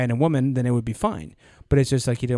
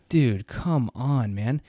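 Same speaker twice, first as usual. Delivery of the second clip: exasperated reproach; much slower than usual. Retold or imitated. Teller reproaching the boss in retelling.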